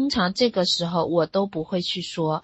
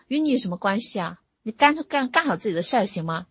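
mock irritated husband brushing off wife; mildly cross, with a brief rise; imitated snappish retort; 2 semitones higher than usual. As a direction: lightly act out telling someone off. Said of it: "干脆凶， 凶我哈。".

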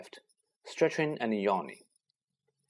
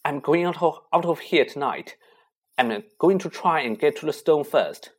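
determined; 4 semitones higher, 5 dB louder than usual. Acted. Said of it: "He was pale, and his eyes were glittery".

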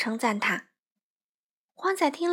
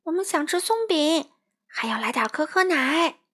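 calling out; 6 semitones higher than usual. Acted. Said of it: "花袜子冲她大喊道".

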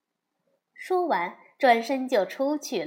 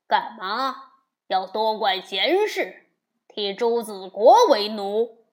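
louder sneering scorn with a snort; cold sneer; 5 dB louder than usual. Acted. Demon king sneering at Wukong, scornful and loud. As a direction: scoff at the monkey. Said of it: "妖王冷哼道".

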